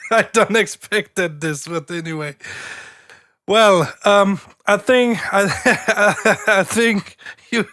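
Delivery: breaking up with laughter mid-sentence; words bubbling into giggles; giggling. Real, not acted. Giggling through the verdict.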